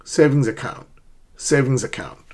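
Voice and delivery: "Savings account" connected with no gap; linked words. Shown as a demonstration. Teacher repeating the model for learners, "Savings account" linked. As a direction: carry "Savings" right into "account". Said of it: "Connect the two words".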